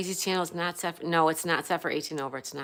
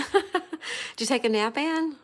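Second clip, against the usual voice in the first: laughing; 6 semitones higher, slower than usual. Real, not acted. Teasing viewer who napped.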